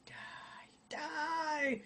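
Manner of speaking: sudden high shout. Real, not acted. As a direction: yell it out at the machine. Yells at noisy computer.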